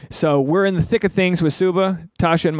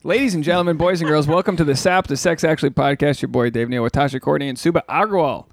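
show-opening announcer patter; podcast intro. Acted. Host welcoming listeners to the podcast, announcer-style intro.

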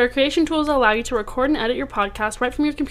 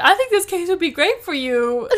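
laughing imitation; 6 semitones higher than usual. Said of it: "She's like".

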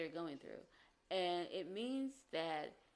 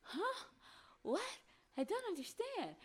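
high, baffled squeak; very high confused "Huh? What?". Retold or imitated. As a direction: act utterly lost by his words. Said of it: "you're just sitting there like".

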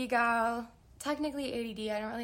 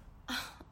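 breathy sigh; 8 dB quieter than usual. Real, not acted. Savouring simple joy.

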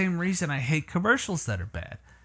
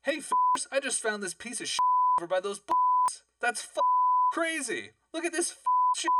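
hick voice; 13 semitones higher than usual. Acted. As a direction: play the yokel again, pitched up. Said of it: "Someone's quite the actor over there".

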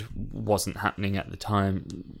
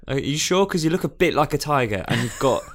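suspicious guard; 3 semitones higher than usual. Pretend. Suspicious soldier questioning tiger.

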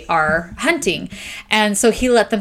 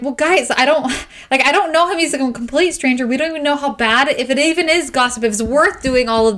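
upset protest; 4 semitones higher than usual. Retold or imitated. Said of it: "And she's like".

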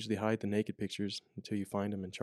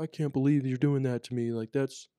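mild angry inmate; 4 semitones higher, 4 dB louder than usual. Retold or imitated. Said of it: "then he gets really mad".

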